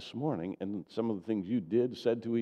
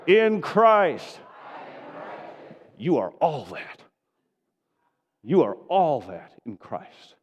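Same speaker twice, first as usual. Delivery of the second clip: very loud, far higher triumphant shout; shouted declaration; 9 semitones higher, 9 dB louder, much slower than usual. Real, not acted. Pastor leading the church in shouting their identity, full-throated shout. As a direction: cry it to the heavens. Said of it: "shout it to the heavens".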